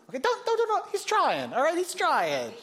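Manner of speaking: high, pressing run of don'ts; urgent pleading. Acted. Pastor pleading with wives, high urgent don'ts. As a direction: beg the wives to hold back, high and urgent.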